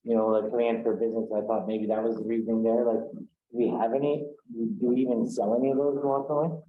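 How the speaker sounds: speaking through a hand; muffled. Real, not acted. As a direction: voice muffled, hand over mouth. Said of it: "you were really muffled there".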